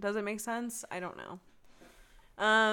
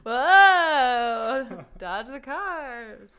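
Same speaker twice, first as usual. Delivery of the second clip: mock Frogger excitement; 4 semitones higher, 11 dB louder, much slower than usual. Mimicking Frogger gameplay.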